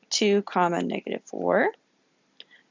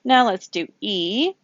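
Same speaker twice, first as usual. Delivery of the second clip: whispered aside. Real, not acted. Teacher murmuring the next step while drawing, whispered. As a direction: breathe the words, almost no voice.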